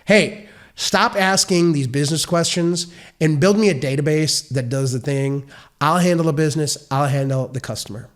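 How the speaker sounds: lightly drawled Southern businessman telling the engineer off; a hint of a Southern business guy, brushing off questions; casual Southern accent, bossy and dismissive. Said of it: "my business person has a Southern accent".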